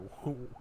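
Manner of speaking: put-on kid's giggle. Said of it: "And then he laughs".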